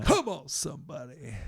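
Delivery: high, loud rallying cry; preacher's call-out. Real, not acted. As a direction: call out to rouse the listeners. Preacher calls out for a response.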